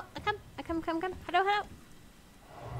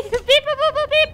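high playful robot beeping; robot beeps; 10 semitones higher, 8 dB louder than usual. Pretend. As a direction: beep like a little droid.

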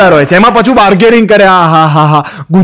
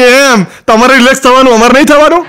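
sarcastic retort; 4 semitones higher than usual. Retold or imitated. Wife retorts sarcastically to husband.

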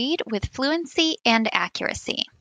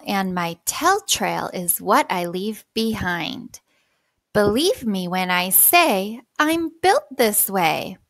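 slow, expressive poem reading. Shown as a demonstration. Teacher reads poem aloud as model.

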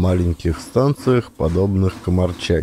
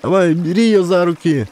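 1 commanding woman; 8 semitones higher than usual. A narrator's reading. Woman ordering Kolka.

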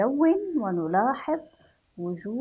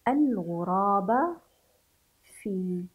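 "الغراب" slowly, as one joined al-ghuraaba; slow careful reading; slower than usual. Shown as a demonstration. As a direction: read "الغراب" whole and measured, ending on a. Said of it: "نقرأ هذه العبارة". (قراءة "الغراب" موصولة بتأنٍّ)

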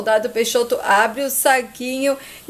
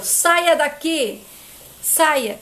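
drawn-out order, pitch raised; firm, slow command to leave; angry dismissal; 4 semitones higher, much slower than usual. Acted. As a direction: order someone out, stretching the words. Son ordering his mother out.

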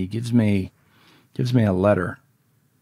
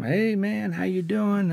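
high-pitched, chummy hello; mock friendly greeting; 12 semitones higher, slower than usual. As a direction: imitate a con man buddying up. Predator sweet-talks the new kid.

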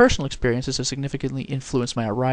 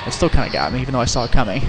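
scared horror game streamer; 6 dB louder, faster than usual. Real, not acted. Jump scare just got him.

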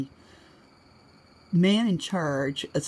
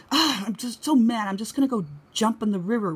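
higher, dramatic venting; mock upset; 5 semitones higher than usual. Wife venting to Robert when upset, hammed-up exasperation. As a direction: vent theatrically, imitating yourself upset. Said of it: "when I get all upset".

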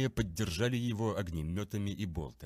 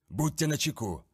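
warning call; 5 semitones higher, 3 dB louder than usual. Acted. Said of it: "предупредил капитан своих воинов".

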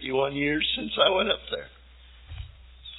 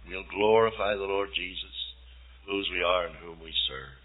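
closing prayer; 2 semitones lower than usual. Acted. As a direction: pray earnestly, letting it sink to a hush.

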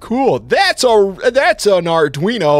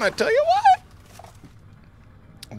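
slow drawling; much slower than usual. Pretend. Silly drawl aside.

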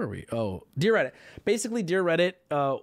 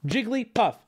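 JIGGLYPUFF spoken crisply in three syllables, higher; emphatic correction; 5 semitones higher than usual. Shown as a demonstration. Streamer correcting chat, emphatic. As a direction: firmly say Jigglypuff unsung.

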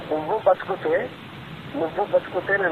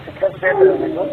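angry; 12 semitones higher, 5 dB louder than usual. Real, not acted. Angry accusation on a phone call.

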